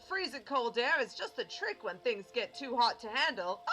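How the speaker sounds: lively in-character mentor explaining; showman mentor. Acted. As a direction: advise a student with theatrical emphasis. Voices mentor giving advice.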